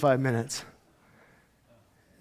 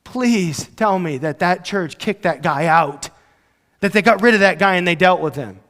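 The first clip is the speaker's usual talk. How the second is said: pleading prayer. Retold or imitated. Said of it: "in prayer and say".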